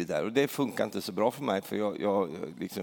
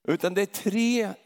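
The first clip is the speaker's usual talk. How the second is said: tre said high and loud; stress on tre; 9 semitones higher, 4 dB louder than usual. Shown as a demonstration. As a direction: land hard on tre. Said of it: "emphasizes three factors". (betona tre högt och starkt)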